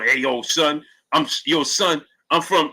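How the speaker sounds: lightly voiced Brooklyn dude stumbling over his words; hint of a hyped-up New Yorker, slow; mock over-talking New Yorker. Mocking New Yorkers who lie about where they're from, lightly voiced hyped-up dude. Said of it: "over talking, moving like this".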